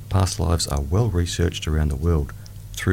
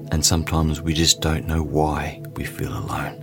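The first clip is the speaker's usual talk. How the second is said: whispering. Acted. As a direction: breathe the words as a whisper. Whispered line in meditation.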